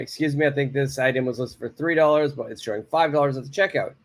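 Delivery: quick and polite with I think. Shown as a demonstration. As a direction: soften it for the clerk, briskly. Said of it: "Okay, one is polite".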